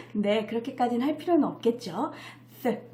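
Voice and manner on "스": ordinary talk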